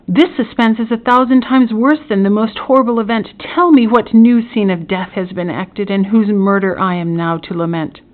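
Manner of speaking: urgent, mildly agonized pleading; anxious demand. Acted. Prisoner begs magistrate for the dreaded news, anxious urgency. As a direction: plead to be told the worst.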